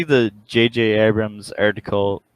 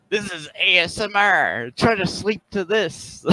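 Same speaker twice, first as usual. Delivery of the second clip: mock ASMR voice; 7 semitones higher than usual. Mock ASMR intro over loud noises.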